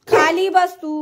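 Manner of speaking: sharp command. Real, not acted. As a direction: order the dog down firmly. Ordering the dog down. (चढ्या आवाजात हुकूम)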